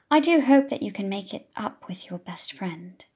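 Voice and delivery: secret whisper; teacher whispering privately to Mum. Acted. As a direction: lean in and whisper it. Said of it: "she whispers to Mum".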